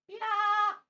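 sudden loud high "Ja!" at the dog; excited yelp. Real, not acted. Playing with the dog, a loud excited shout. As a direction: burst out playfully.

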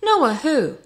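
high, loud, baffled query; clueless question. A narrator's reading. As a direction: carpenter suddenly puzzled. Baffled carpenter after claiming to know.

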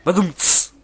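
"badum, cs" jak perkusja po suchym żarcie; naśladowany werbel. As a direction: imitate a punchline rimshot. Perkusyjny akcent po puencie żartu. (naśladowana perkusja po puencie)

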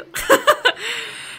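high burst of laughter; high-pitched laugh; real laugh. Real, not acted. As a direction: laugh out loud mid-story. Laughs while retelling the panic.

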